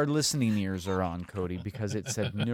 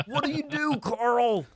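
squeaky high voice; 11 semitones higher than usual. Pretend. High silly voice, joking.

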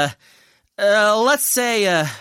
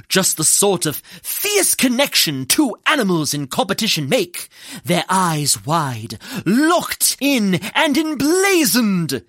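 relishing intensity. Acted. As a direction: savour every word, stretching it out. Dramatic elaboration of the stare-down.

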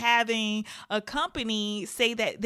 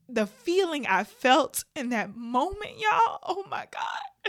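fighting tears; 2 semitones higher than usual. Real, not acted. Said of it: "I'm trying not to cry".

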